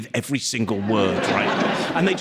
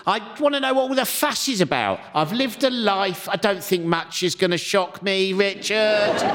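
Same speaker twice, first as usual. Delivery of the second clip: lightly put-on old lady voice, higher and slow; elderly Lizzie voice; 3 semitones higher than usual. Old reader Lizzie insisting to the librarian, in a lightly put-on old lady voice. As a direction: play the unshockable old lady, a touch indignant. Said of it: "She went".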